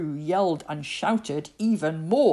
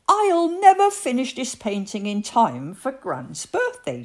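higher and louder, a frantic mother at wits' end; frazzled mum panicking over a deadline; frantic cry; 7 semitones higher, 6 dB louder than usual. A narrator's reading. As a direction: blurt it out, flustered and rushed. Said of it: "she cried".

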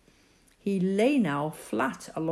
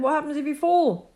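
anxious; 10 semitones higher, 6 dB louder than usual. Acted. Worried mother fears fall.

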